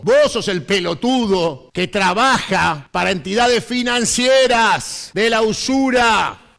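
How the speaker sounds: rising angry shout on usura; shouted harangue. Acted. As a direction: hammer the words out in anger. Impassioned political harangue.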